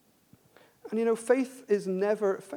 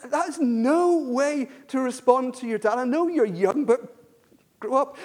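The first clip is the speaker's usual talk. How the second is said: stern scolding; 4 semitones higher, 5 dB louder than usual. Retold or imitated. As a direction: lecture the boy hard, then snap grow up. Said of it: "I was so angry".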